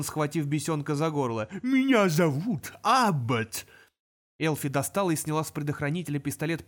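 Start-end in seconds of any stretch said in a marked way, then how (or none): 1.6-3.7 slow, louder demon roar. Acted. Demon throttling the imp, roaring. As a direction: bellow each word. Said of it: "взревел демон".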